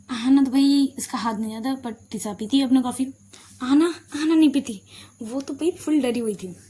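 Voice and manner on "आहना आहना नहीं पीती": ordinary delivery, nothing marked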